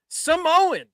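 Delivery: mock scream. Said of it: "Michael Cole screams".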